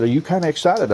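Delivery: playfully hyped question; mock excitement. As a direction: pitch jumps up, eager and teasing. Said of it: "I'm getting excited".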